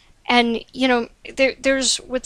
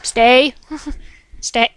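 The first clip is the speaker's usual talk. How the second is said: louder, rising stay; firm command to cat; 2 semitones higher, 5 dB louder, slower than usual. Real, not acted. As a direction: tell the cat to stay put.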